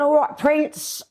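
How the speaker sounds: very high, drawn-out cheeky hail; re-enacted matey shout-out, pitched right up; brash retold greeting. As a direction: call out to royalty like an old mate, high and slow. Retelling brash greeting to the prince.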